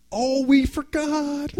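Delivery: high, slow mock-innocent "oh, we forgot"; teasing mother. Mother teasing her son about the drums, high and slow. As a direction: play the prankster mom pretending to forget. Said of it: "she says".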